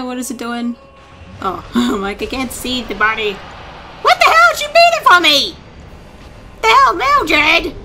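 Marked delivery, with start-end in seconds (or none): 3.3-7.8 much higher, louder, slow disbelief; real astonished yell at the ally; stunned, stretched-out cry of surprise; shocked outburst. Real, not acted. Partner unexpectedly kills the boss.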